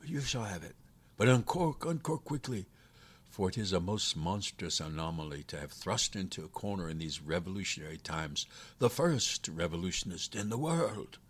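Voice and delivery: impatient captive demon. Acted.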